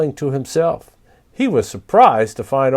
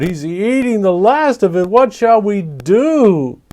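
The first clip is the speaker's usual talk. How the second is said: panicked creatures; 8 semitones higher, 5 dB louder than usual. Acted. Creatures panic over the moon.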